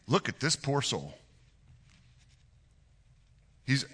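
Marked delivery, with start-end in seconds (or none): 0.1-1.2 soft, lower, pitying aside. Acted. Pilate appealing to the chief priests, softly pitying. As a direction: say it softly, with pity. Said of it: "it's meant as pity".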